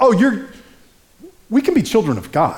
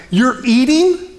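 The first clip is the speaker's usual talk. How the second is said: put-on higher, slow, amazed child; child's amazement; 9 semitones higher, 4 dB louder, slower than usual. Hungry girls amazed at the dinner table, high and slow. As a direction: stretch it out in a high, wondering voice.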